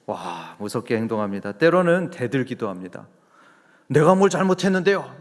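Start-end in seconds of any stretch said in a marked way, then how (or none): 3.9-5.2 higher, louder mock defiance of a teen son; 대드는 아들 흉내, 높고 큰 소리로; defiant talking back. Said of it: "이러면서 막 대들기도 합니다". (사춘기 아들이 부모에게 대드는 반항조)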